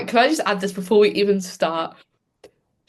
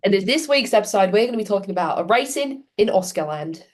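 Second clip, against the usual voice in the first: London accent. Shown as a demonstration. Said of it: "I want your best London accent".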